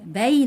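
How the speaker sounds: بي said with an audible y glide, "bey"; بي enunciated as a model syllable; very clear y. Shown as a demonstration. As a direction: sound the y at the end of بي. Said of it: "نطقت الياء بشكل واضح قوي".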